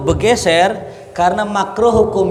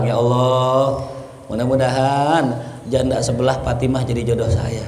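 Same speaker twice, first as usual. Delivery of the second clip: imitated supplication; 3 semitones lower than usual. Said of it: "Ada orang".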